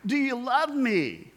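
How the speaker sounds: a hint of Jesus pleading; Jesus asking. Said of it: "You know".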